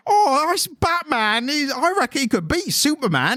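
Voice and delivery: camp it up as a plummy Brit; a British podcaster hamming up his accent for Americans; mock posh British. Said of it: "because we're like".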